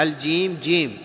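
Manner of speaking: "جيم" with a j sound; proper jim. Shown as a demonstration. Teacher models the right letter, j in "جيم". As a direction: say "جيم" as jiim, never giim. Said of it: "تخرج الحرف من مخرجه".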